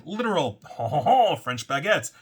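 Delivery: mock French accent. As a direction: put on a playful French accent with a chuckle. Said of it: "that was my French accent".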